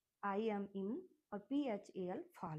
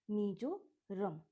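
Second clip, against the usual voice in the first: slow model word; much slower than usual. Shown as a demonstration. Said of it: "two parts में मिजो और रम".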